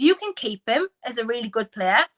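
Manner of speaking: accidental Welsh lilt; Welsh-sounding. Real, not acted. Podcaster making a point about loan players, unintentionally Welsh-sounding. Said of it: "I sounded Welsh there for some reason".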